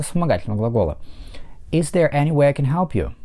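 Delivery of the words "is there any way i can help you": is there any way I can help you with way and help stressed. Shown as a demonstration. Teacher models stress on way and help. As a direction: lean on way and help. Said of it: "два слова под ударением way и help".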